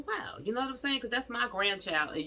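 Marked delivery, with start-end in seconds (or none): 0.1-0.4 very high exclaimed wow; stunned wow. Pretend. Grandmother stunned by the aunt's insult, very high wow. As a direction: let it fly up in shock. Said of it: "That would make me just go".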